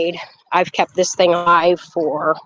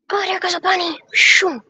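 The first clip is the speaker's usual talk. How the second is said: surprised; 11 semitones higher than usual. Real, not acted. Spots a rabbit in the yard.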